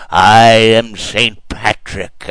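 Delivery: slow, drawn-out, booming Saint Patrick; ominous bellow. Retold or imitated. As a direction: loom over the kids, slow and menacing. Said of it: "bellowed out in an ominous voice".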